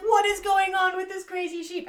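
high, loud, laughing panic; panicked farmer voice. Acted. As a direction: squeal it out in a frantic high voice. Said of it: "She's like".

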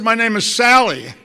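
imitating a thrilled caller; excited young fan. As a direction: announce your name proudly to a star. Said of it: "She said".

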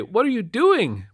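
high, loud, slow panicked question; alarmed. A narrator's reading. Bitten man sees gun aimed at him, alarmed. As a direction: voice jumps up in alarm.

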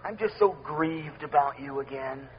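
low, soft, sorrowful sigh of a grieved God; a touch of weary disappointment, fading to a sob-like hush; mournful God. Retold or imitated. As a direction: sound heartbroken and let down. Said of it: "he's sad".

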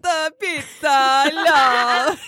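hammed-up mix of Italian and Russian; Italian-Russian accent. Showing friends her accent, muddled Italian-Russian. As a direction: mangle Russian into cartoon Italian. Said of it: "little Italian with a little side of Russian".

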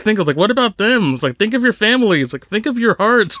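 lightly hammed-up pleading reproach; mock shaming. Canadian driver shaming a cursing rival, mock reproach. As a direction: plead with mock indignation, half amused. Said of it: "shaming him".

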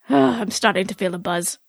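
low, sighing British voice; dodgy British accent. Acted. Vex admits a buzz to Bo, dodgy British accent. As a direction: sigh in a badly faked British accent. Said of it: "a very dodgy British accent".

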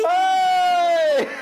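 long high-pitched "ai" shriek; mock scream. Co-host acting whoever appears at the door, mock scream.

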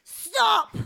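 high shouted command; shouting. Acted. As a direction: yell it to halt them. Hero bursts in shouting.

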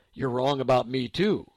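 lightly voiced stern husband. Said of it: "I heard a deeper voice".

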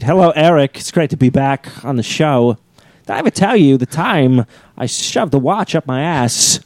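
slow, halting delivery with odd emphasis; celebrity impression. Guest greeting Eric back on the show, halting impression. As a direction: stretch the phrases in a lightly put-on voice. Doing Walken impression on request.

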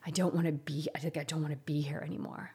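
soft, broken, half-whispered despair; quietly retelling a tearful confession to a friend; retold sobbing whisper. Crying to a friend, fading into a whisper. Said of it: "And I was just sobbing".

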